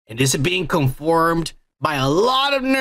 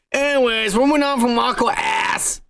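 higher, shouted announcement; topic-change shout; 6 semitones higher than usual. Real, not acted. Host shouting to wrap up the Aquaman topic. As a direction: call it out to move the show on.

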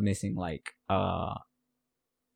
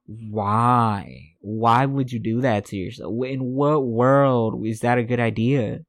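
louder, drawn-out incredulous "why"; raised-voice bafflement; exasperated disbelief; 5 dB louder, slower than usual. Real, not acted. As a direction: demand to know what on earth they were thinking. Exasperated question about a baffling decision.

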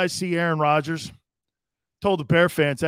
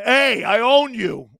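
slow, louder gloating taunt; Aaron Rodgers taunting; 6 semitones higher, 7 dB louder, slower than usual. Retold or imitated. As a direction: rub it in the fans' faces. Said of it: "He's telling Bear fans".

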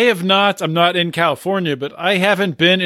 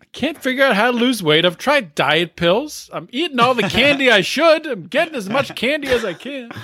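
mock Angela; 6 semitones higher than usual. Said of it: "impersonating Angela".

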